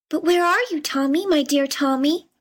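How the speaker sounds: put-on high, worried call for her child; anxious mother crying out. A narrator's reading. Mother calls for her lost son, high anxious cry. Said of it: "cried out his mother".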